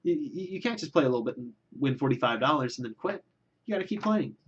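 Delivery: fast, lightly voiced nagging mother; imitating mother. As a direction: rush it like a pushy mom. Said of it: "This is not how my mother sounds".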